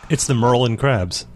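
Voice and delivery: Merlin said the Baltimore way, drawn out slow; local Baltimore accent. Shown as a demonstration. Host greeting listeners in a mock local accent. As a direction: put on a bit of Bawlmer twang. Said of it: "trying to get more of a regional accent".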